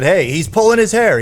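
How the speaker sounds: high, loud heel announcer cry. Shown as a demonstration. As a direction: sell the cheating like a heel announcer. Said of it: "you could have said".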